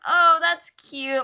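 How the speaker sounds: high, slow, drawn-out coo; cooing reaction. Retold or imitated. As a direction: gush as if at something adorable. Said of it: "oh, it's like".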